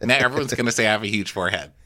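fast, laughing whine; laughing mock complaint. Voicing Paige complaining.

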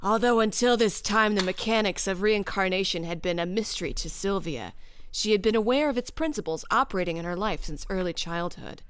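husky smoker's voice reading aloud; cigarette voice. Pretend. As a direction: read it like a chain-smoking psychic. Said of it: "you have to have, like, a cigarette voice".

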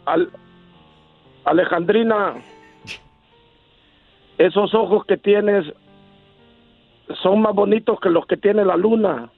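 slow tender declaration of love; romantic recital. Acted. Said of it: "unas palabras que salgan del corazón".

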